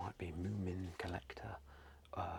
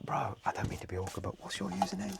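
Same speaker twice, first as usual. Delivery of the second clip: polite curious ask; 8 semitones higher, 3 dB louder than usual. Retold or imitated. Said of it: "And I'm like".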